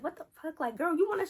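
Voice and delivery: high-pitched, indignant friend; acted outrage. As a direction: imitate a friend riled up and ready to step in.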